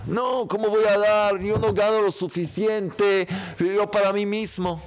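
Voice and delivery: high whiny excuse voice; stingy complainer voice. Pretend. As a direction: play the reluctant giver. Voicing a stingy person's excuse.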